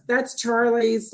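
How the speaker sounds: slow, drawn-out stalling for time; stalling hesitantly. Retold or imitated. To the cop, stalling slowly over the luggage. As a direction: stretch it out while searching for the word. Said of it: "I kept doing this".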